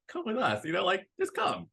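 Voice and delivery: high-pitched imitation pleading; half-laughing high plea to a friend; mock pleading. Reiner pleads with Eren.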